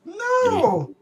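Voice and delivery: put-on loud, high bawling kid; hammed-up tantrum wail, words drawn out; wailing child. GM plays terrified kid wailing.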